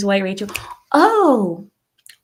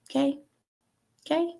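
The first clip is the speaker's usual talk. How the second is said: chiding; 8 semitones higher, 6 dB quieter, faster than usual. Retold or imitated. Chiding friend, high squeak.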